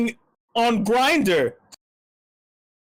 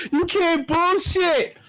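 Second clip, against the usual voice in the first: slow, stretched mocking voice; 8 semitones higher, slower than usual. Mocking, repeating the catchphrase.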